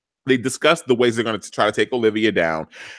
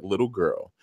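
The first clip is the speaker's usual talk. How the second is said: a hint of a lower, menacing threat; menacing villain; 3 semitones lower than usual. Papa Pope threatening Quinn over the baby, lightly menacing. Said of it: "And he's like".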